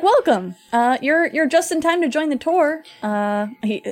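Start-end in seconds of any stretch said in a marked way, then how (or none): 0.0-2.8 put-on southern accent. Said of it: "oh man, he's getting real southern".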